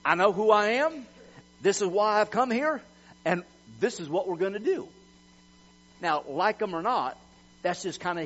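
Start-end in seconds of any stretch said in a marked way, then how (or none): 0.0-4.9 imitating a cocky, emphatic declaration; swagger. Preacher mimicking the president facing opposition, with swagger. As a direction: lay it out with confident swagger. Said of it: "does it with some swagger to say".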